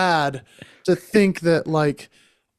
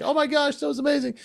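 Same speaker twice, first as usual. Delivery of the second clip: impressed; 10 semitones higher, 3 dB quieter, faster than usual. Retold or imitated. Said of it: "he was like".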